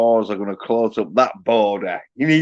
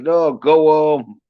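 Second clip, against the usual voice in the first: mock shout; 4 semitones higher, 6 dB louder, slower than usual. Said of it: "He's like".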